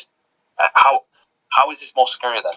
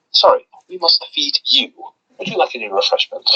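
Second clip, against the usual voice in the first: imitated alien servant, pitched up then settling back; Ood impression; 7 semitones higher than usual. Podcaster imitates the Ood correcting itself, polite alien impression. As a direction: switch the alien voice to a polite offer. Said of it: "that was an amazing impression".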